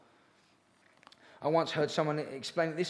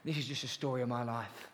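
glum moaning; 6 semitones lower, 7 dB quieter than usual. Retold or imitated. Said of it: "you hear people saying".

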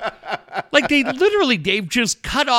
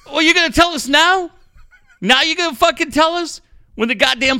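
mock rant; 5 semitones higher than usual. Real, not acted. Host ranting at the columnist for writing too late, exasperated. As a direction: lay into the columnist.

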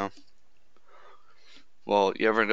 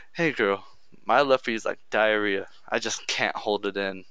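smooth, cocky pickup delivery, settling lower; cocky confidence; 4 semitones lower than usual. Pretend. Guy hitting on a girl with a pickup line, cocky. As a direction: rock the line with mock swagger. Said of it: "full on big dick energy".

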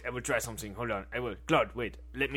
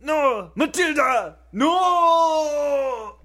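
high wailing cry of despair; anguished scream; 13 semitones higher, 6 dB louder, much slower than usual. Acted. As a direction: scream her name in anguish. Being eaten by ghosts.

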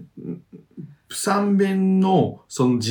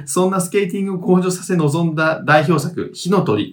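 measured reading of listener mail; letter read-aloud; 5 semitones higher, 3 dB louder than usual. Acted. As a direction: read the message out evenly.

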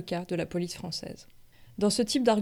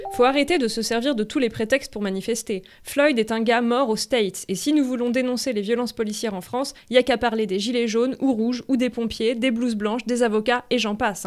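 exasperated comment; 3 semitones higher, 5 dB louder than usual. Retold or imitated. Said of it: "encore un commentaire Facebook".

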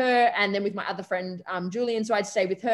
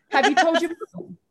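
worried teacher; 7 semitones higher, 4 dB louder than usual. Retold or imitated. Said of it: "And he was like".

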